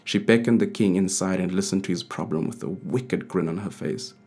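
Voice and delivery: ordinary delivery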